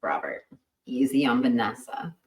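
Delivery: soft unvoiced whisper. Real, not acted. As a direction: breathe it as a warning. Mock warning aside.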